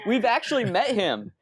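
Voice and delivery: laughing through the words. Real, not acted. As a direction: chuckle while saying it. Laughing while speaking.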